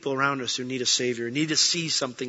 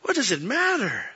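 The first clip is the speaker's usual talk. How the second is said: voice of the Lord; 9 semitones higher than usual. Retold or imitated. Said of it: "And he's like".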